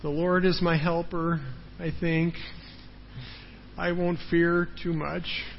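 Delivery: the Lord is my helper said timidly, trailing off on I think; doubtful half-hearted confession; unsure, hesitant. Shown as a demonstration. Preacher mocking a timid believer, hesitant and soft. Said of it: "So it's not like".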